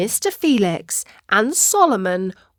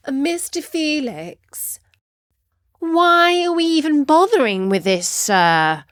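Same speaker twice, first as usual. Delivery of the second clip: frustrated pupil; 6 semitones higher than usual. Acted. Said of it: "her voice laced with genuine curiosity".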